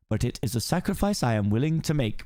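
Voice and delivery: lightly voiced pompous lord; lord's speech. Farquaad addressing the knights, lightly voiced pompous speech.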